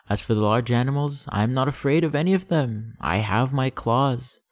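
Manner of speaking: a proud flower letting him go; lightly voiced proud flower. Flower insists she'll manage.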